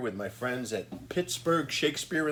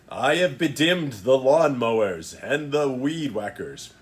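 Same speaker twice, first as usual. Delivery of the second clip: grand, stagey proclamation; sweeping theatrical joke recitation; mock Shakespearean declaiming. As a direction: declaim it like Prospero, tongue in cheek. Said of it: "So let me give it a read".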